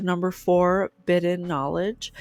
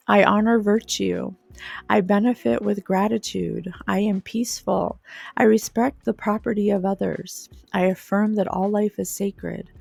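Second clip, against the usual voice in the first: a steady, devoted recital of the ideals; solemn reading aloud. Acted. Reads list of ideals aloud.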